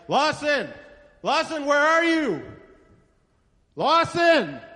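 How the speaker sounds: high, anxious calling out; nervous parent calling, pitched high and long. Acted. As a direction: cry out for a missing child. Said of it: "I'm raising my voice".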